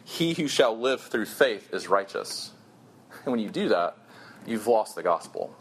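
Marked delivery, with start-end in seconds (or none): 0.0-2.5 slow demo. Shown as a demonstration. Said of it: "we switch it simply to this".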